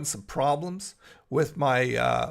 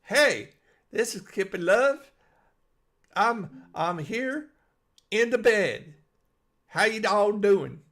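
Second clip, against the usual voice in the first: mock video intro; 4 semitones higher than usual. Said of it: "grab your phone and go".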